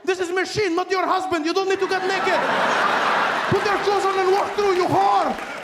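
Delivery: very high, loud mock panic; hammed-up frantic security men; shocked guards. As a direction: squeal at her like scandalised guards. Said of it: "She's like".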